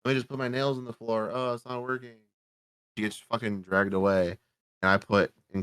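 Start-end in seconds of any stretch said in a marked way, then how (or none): 0.0-2.2 half-hearted mock damsel whining; mock struggle. Mocking the victim's lazy fight to stay. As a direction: ham up a lazy, fake struggle. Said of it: "The lazy attempt to, like, stop".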